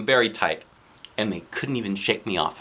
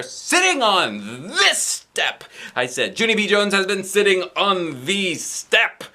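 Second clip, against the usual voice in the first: put-on excited child; 8 semitones higher, slower than usual. A narrator's reading. Leaping child.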